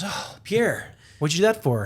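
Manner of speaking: mock outraged girlfriend, starting in a whisper. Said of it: "she goes".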